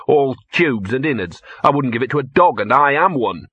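lightly voiced disgusted dog; a hint of an indignant street dog; grumbling talking dog. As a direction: grumble like a picky mutt turning up its nose.

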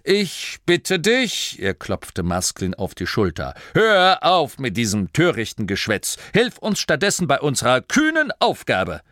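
haughty gnome noble; pompous Duke. Acted. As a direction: lecture him like a proud little duke. The Duke lectures Masklin.

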